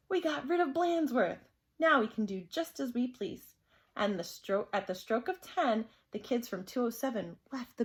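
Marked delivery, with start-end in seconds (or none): 0.1-3.5 triumphant. Acted. Kids triumphant.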